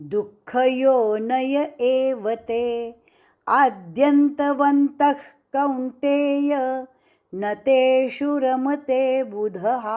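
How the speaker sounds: measured Sanskrit chanting of a shloka; slow, even chant of a Sanskrit verse; verse recitation. Shown as a demonstration. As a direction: recite the verse slowly and evenly, like a teacher.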